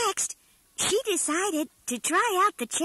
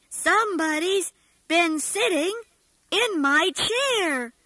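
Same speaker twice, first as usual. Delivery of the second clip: growled. Acted. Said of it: "growled the great big bear".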